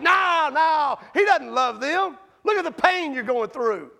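hint of a scoffing critic; scoffing bystander. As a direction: argue back like a naysayer. Voiced arguing bystander.

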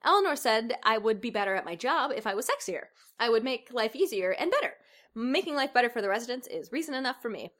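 a hint of perky helper; lightly chipper, eager to please; mildly upbeat Good Janet; typical perky voice. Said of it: "said in her typical perky voice".

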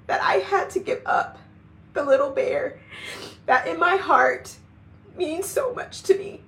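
real tears breaking through the words; crying. Real, not acted. Telling viewers what she had to give up, crying. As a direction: voice cracking up high into tears. Tearful about giving up community.

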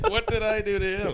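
squealing high through laughter; laughing cow whine. Pretend.

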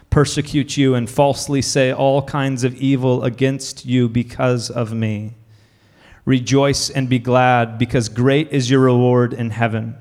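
measured reading of the Beatitudes; scripture reading. Acted. Pastor reading scripture aloud to the congregation, measured. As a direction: read it out like a lesson in church.

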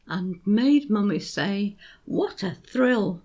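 put-on beats marked on young, teddy, Bill; stressed rhythm. Shown as a demonstration. Teacher showing parents the beat, stressed. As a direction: tap out the rhythm of "There was a young teddy named Bill". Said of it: "Here's how it works".

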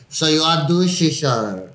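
lightly hammed-up Mexican accent. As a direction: slip into a Mexican accent, amused. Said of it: "I got so Mexican right there".

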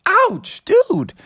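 high, slow hurt whine; pained yelp. Acted. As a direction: whine it out, burned and hurting. Froggy burned, cries out.

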